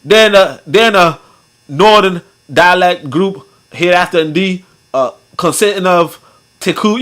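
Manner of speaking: Southern US accent. Shown as a demonstration. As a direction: read it in a rough try at a Southern accent. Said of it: "like, the Missouri accent or the Louisiana accent".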